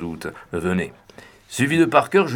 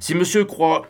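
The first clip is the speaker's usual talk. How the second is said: doubtful; 9 semitones higher than usual. A narrator's reading. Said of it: "d'un ton dubitatif".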